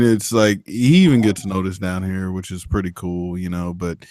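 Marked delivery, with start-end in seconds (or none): none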